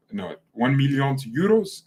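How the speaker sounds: mock Italian accent, stretching the words; slow Italian-accented announcement; Fabrizio. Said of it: "That's how Fabrizio says it".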